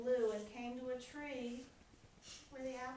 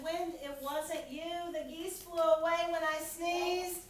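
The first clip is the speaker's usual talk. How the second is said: Bear; 5 semitones higher, 6 dB louder than usual. A narrator's reading. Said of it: "Bear said".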